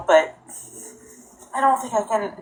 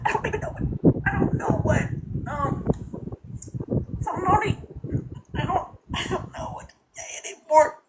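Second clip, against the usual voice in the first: higher, softer words through tears; choking up, struggling to speak; tearful and halting; crying; 7 semitones higher, 5 dB quieter than usual. Real, not acted. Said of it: "I'll stop crying".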